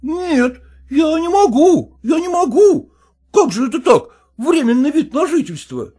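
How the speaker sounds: put-on high, pleading, indignant voice of a fussy young husband; whining son-in-law. Son-in-law protesting to his father-in-law, high whining indignation. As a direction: squeal your outrage up high.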